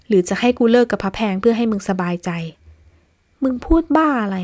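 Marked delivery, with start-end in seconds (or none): 3.4-4.4 raised, higher angry snap at a friend; furious disbelief, voice up high; angry shout. Acted. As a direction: fire it back hot and loud. Friends quarrel, heated retort.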